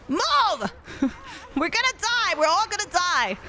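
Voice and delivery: high wails between bursts of laughter; giddy panic. Real, not acted. Panic laughing during game chase.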